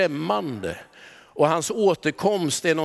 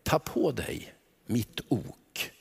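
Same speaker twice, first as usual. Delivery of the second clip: soft slow Jesus; 7 semitones lower, 8 dB quieter, much slower than usual. Acted. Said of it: "Och så säger han en tredje".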